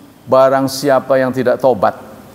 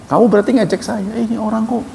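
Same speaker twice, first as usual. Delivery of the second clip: higher, firm rebuke; lightly voiced divine reproach; voicing God; 7 semitones higher than usual. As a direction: speak as the maker who is offended.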